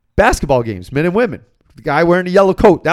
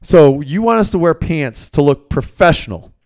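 heated retort; 3 dB louder than usual. Retold or imitated. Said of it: "I get a little heated".

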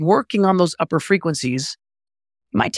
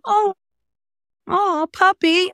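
very high, slow cooing pet voice; talking to a puppy; much slower than usual. Acted. Coach imitates people greeting their dog, high cooing baby talk. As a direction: coo in a high pitch at a puppy. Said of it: "but when the dog comes in".

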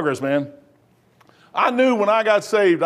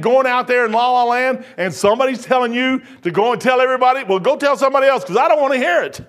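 worked-up telling-off, pitched up; retold angry rebuke; 4 semitones higher, faster than usual. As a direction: re-enact cutting off a visitor's story. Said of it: "if you ever see me get mad, I was mad".

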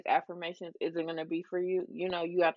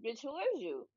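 mock younger self; 4 semitones higher than usual. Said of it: "younger me would look at me and be like".

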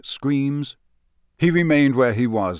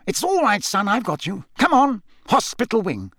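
hustle him along kindly; gruff reassurance; 10 semitones higher than usual. Acted. Moody leads Harry.

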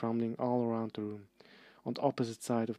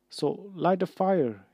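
strained choked plea, slow and higher; choking; 7 semitones higher, 6 dB louder, slower than usual. Acted. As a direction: force it out while being strangled. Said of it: "Harry choked".

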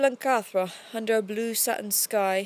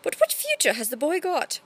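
pointed question, pitched higher; Burbage asking; 6 semitones higher than usual. Acted. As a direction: press the question about the boy's future. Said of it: "he admitted".

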